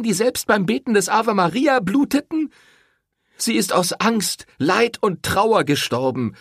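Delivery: enraged woman accusing the priest; furious. A narrator's reading. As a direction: spit out the family's shame. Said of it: "starrte den Pfarrer wütend an".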